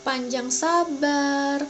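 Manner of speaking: each virtue slow and clear; slow, deliberate listing. Acted. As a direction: spell out the list slowly for kids.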